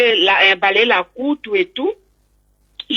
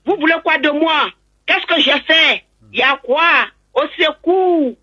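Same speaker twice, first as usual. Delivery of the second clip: half-voiced retold distress cry; 5 semitones higher than usual. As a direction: act out calling for help without full volume. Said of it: "Je criais".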